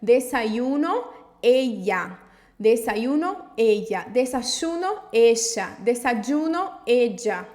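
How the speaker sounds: Desayuno, ella said as i, sh, dj in turn, loud and slow; y and ll sounds. Shown as a demonstration. Teacher drilling ll and y variants with learners. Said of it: "vai ter os mesmos sons do Y".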